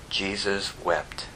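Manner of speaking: low, slow and very soft; solemn verse reading. Real, not acted. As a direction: let the verse fall softly and slowly.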